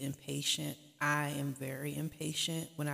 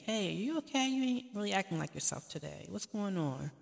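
caring check-in; 5 semitones higher than usual. Retold or imitated. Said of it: "for each other to say".

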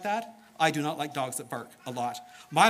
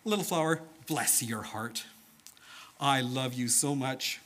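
Jesus speaking tenderly; 2 semitones lower than usual. Acted. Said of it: "he must have said something like this".

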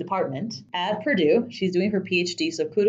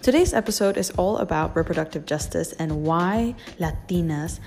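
fuzz distortion. Real, not acted. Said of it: "we apologize for the distorted audio".

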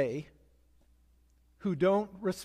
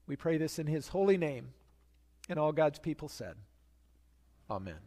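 prayer. Acted. Pastor praying for his congregation, reverent and gentle. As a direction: pray it gently over the congregation.

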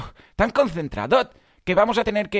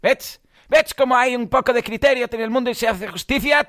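higher put-on voice with a mock t tacked onto word endings; hammed-up funny voice; 4 semitones higher than usual. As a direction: clown it up, adding a t to words. Comic put-on voice after jingle.

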